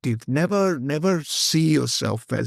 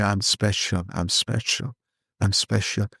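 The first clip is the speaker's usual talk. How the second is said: gentle affirmation; 5 semitones lower than usual. Shown as a demonstration. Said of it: "look at a color and say".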